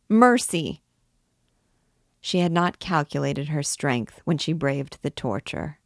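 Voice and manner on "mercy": loud, high plea for mercy; terrified shout; pleading cry. A narrator's reading. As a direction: beg in agony. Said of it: "cried the miserable girl".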